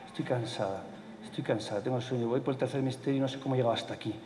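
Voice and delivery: soft, worn-out grumble to God; weary complaint. Shown as a demonstration. A tired believer complaining to God, soft and weary. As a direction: let the tiredness sag in the voice. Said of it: "en quejarse con Dios y decirle".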